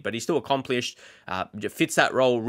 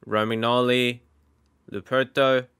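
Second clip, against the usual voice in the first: Italian accent. Shown as a demonstration. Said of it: "trying to say the names in a more Italian accent".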